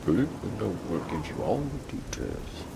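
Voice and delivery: imitating the Nord accent of the line just heard; light Nord accent parroting the courier. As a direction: echo the note line in a mock Nord accent. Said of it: "That sounds like, uh, Nord accent".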